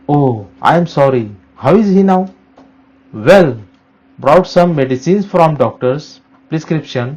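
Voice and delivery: slow, careful reading of a classroom dialogue; dialogue read aloud. Shown as a demonstration. Teacher reading a role play for students, slow and careful. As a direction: read each line slowly and clearly for the class. Reads a second model dialogue.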